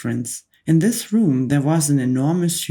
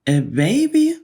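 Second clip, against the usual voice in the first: higher, louder indignant shout; outraged shout; 9 semitones higher, 4 dB louder than usual. A narrator's reading. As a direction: shriek it in disbelief. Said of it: "shouted the Trunchbull".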